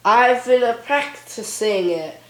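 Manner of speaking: lightly put-on Scottish accent; halting attempt at a Scottish accent. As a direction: say it with a hint of Scottish. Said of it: "Scottish accent".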